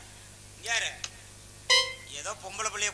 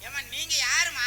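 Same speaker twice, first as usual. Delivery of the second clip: loud and slow for a deaf listener; slow loud call; 4 semitones higher, 6 dB louder, slower than usual. Acted. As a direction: spell it out loudly and slowly. Shouting slowly at deaf woman.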